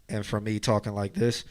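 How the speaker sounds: muffled and boxy, like speaking from inside a can; boxy mid-range voice; boxy can sound. Shown as a demonstration. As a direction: cup the mic so the voice sounds boxed in. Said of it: "you see that huge difference".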